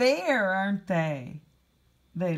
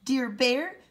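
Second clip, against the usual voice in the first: high little mouse voice, louder at the start; squeaky mouse; 7 semitones higher, 4 dB louder than usual. Acted. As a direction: comfort the bear as a tiny squeaking mouse. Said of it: "Mouse squeaks".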